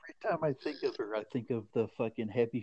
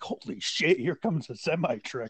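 louder, fast laughing warning; laughing alarm; 5 semitones higher, 10 dB louder than usual. Retold or imitated. Friend recalling tent scene, loud fast laughing warning. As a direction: blurt the warning through laughter. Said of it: "I was like".

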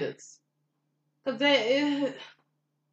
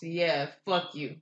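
slow dismissive reply; 4 semitones lower, much slower than usual. Retold or imitated.

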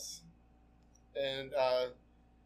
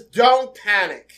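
calm reassurance; 9 dB louder, much slower than usual. Retold or imitated. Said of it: "So Vivian says".

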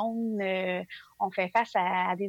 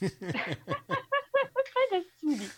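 whispered mumble; half-whispered, muttered words; mumbling; 11 semitones higher, much faster than usual. Real, not acted. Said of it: "je marmonne un petit peu".

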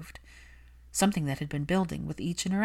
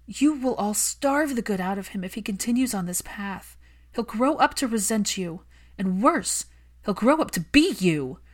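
higher, louder furious plea; angry Hermione; 5 semitones higher, 4 dB louder than usual. Acted. Hermione scolding Malfoy for neglecting his son, heated. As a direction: defend the lonely child fiercely.

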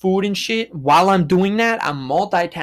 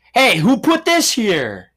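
mock puzzled outrage; 7 semitones higher, 5 dB louder, slower than usual. Mock confusion at the snow.

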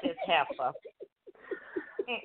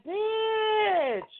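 laughing panic; 13 semitones higher, much slower than usual. Retold or imitated. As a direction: blurt it while laughing in panic. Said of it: "my cousin was laughing".

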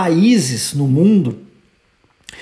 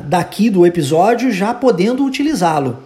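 ordinary delivery

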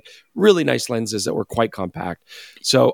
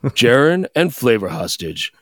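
deep, slow mock-seductive voice; low sexy voice; 3 semitones lower, slower than usual. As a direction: drop low and slow for a sultry narrator. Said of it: "talking low and that's how you think you sound".

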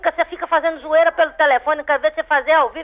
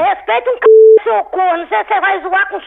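real anger; 3 semitones higher, 4 dB louder than usual. Real, not acted. Woman snapping back at a caller demanding respect, angry. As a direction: throw the demand back, pitch raised. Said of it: "lagartixa tá braba demais".

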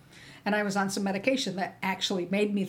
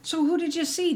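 mock pointed question; 9 semitones higher, 4 dB louder than usual. Provider's pointed question retold.

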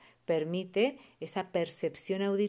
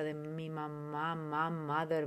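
loving M; 5 dB quieter, slower than usual. Shown as a demonstration. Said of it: "la M es muy amorosa".

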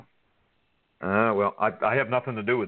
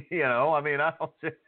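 laughing; 3 semitones higher than usual. Real, not acted. Laughs at wrestling jab.

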